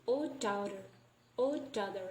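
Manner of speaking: "oh daughter" merged on a single D; "oh daughter" linked without a break; full assimilation. Shown as a demonstration. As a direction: run "oh daughter" together as one word. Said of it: "this is a full assimilation".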